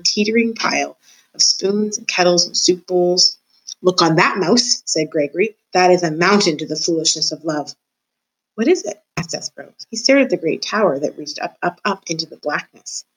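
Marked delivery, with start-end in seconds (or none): 3.8-7.8 a lightly voiced, gloating old jailer; a hint of a menacing jailer taunting the mouse; creepy old jailer. Gregory's voice again. 8.6-9.0 high, wide-eyed little mouse asking; a lightly voiced awed mouse; awed question. Mouse asks in awe.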